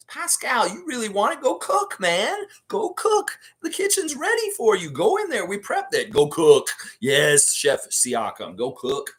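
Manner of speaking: high, pumped-up urging; hype cheer. Retold or imitated. Urging Siakam to go cook, high and excited. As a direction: cheer him on like a hype man. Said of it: "This is like".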